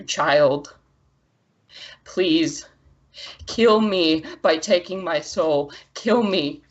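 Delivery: measured, solemn plea; deliberate otherworldly entreaty; proud elemental, pleading. Acted. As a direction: beg with restraint, as a proud spirit. Game master voices elemental figure.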